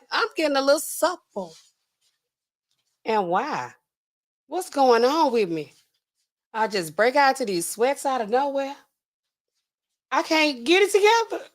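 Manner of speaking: mock tearful man. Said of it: "he probably crying".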